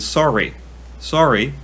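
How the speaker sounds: "sorry" with a Canadian vowel; Canadian inflection. Shown as a demonstration. American listing words noticed as different, Canadian inflection. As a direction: demonstrate how Canadians pronounce "sorry". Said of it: "words that I ever noticed that there was a different inflection".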